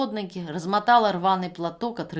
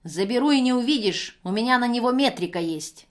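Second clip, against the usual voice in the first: much louder threatening shout; 4 semitones higher, 5 dB louder than usual. Acted. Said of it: "кричала женщина". (кричит, угрожая забрать сына)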